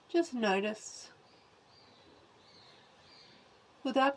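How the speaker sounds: calm, measured guidance with long pauses; guided body scan. Acted. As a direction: guide attention through the body, leaving space after each phrase.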